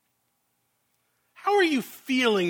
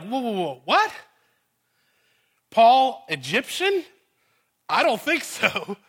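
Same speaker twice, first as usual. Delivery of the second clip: incredulous listener; 3 semitones higher than usual. Retold or imitated. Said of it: "You're like".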